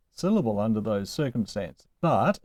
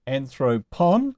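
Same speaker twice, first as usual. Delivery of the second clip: "Anthropon" stressed on its first syllable; slower than usual. Shown as a demonstration. Teacher showing the accent can stay, first-syllable stress on "Anthropon". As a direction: lean on the opening syllable of "Anthropon". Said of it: "can stay there".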